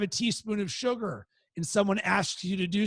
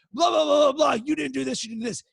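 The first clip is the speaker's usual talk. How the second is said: high, loud mock nagging "blah, blah" that fades down; 5 semitones higher, 4 dB louder, faster than usual. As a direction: parodies his wife's angry comeback, loud then dropping. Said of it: "what happens for her".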